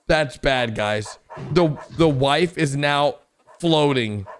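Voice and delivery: ordinary delivery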